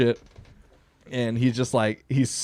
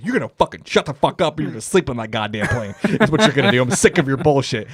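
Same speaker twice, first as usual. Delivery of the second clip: retold pissed-off scolding. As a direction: replay laying down the law to a drunk friend. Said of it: "I get in the Uber and I'm pissed".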